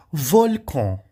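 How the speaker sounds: "Volcan" with final N as nasal "on"; French nasal pronunciation. Shown as a demonstration. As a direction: say "Volcan" ending in a French nasal vowel, no hard N. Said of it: "a letra N em francês nós vamos pronunciar on".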